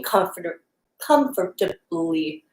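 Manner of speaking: "comfortably" drawn out slow and halting; stumbling over the word. Real, not acted. Teacher tripping over "comfortably" mid-cue, slow and halting. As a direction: struggle through "comfortably" slowly. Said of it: "why is that word difficult right now?".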